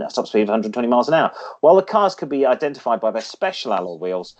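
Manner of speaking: lightly read-out segment voice; feature read. Acted. Reads classic car feature.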